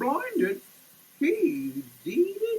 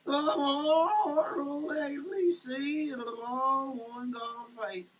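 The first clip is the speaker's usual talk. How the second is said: declaimed poem with long drawn pauses; poem recital; 2 semitones higher than usual. Acted. Preacher reciting his own poem to listeners, declaimed.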